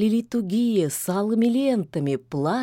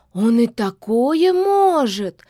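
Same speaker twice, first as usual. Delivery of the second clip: slow, louder frightened cry; frightened gasp; 4 semitones higher, 6 dB louder, slower than usual. A narrator's reading. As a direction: gasp out the fear. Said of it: "испуганно охнула девица". (испуганно охнув)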